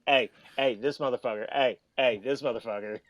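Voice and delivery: lightly imitated PE teacher verbal tic; Chip. Mimicking a PE teacher friend to the hosts, light impression. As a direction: repeat short, punchy heys like a coach. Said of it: "he talks like this".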